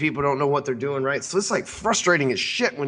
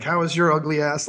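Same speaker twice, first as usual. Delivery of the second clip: a rude jab, voiced higher; rude mock insult; 4 semitones higher than usual. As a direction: toss off a mocking insult, slightly higher. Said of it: "he was, like, all rude to her".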